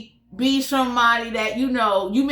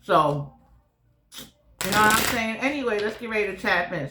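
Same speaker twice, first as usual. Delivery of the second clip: talking around a whitening strip; slightly lisped, mouth full; 3 semitones lower than usual. Real, not acted. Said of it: "I have a whitening strip in the top and the bottom".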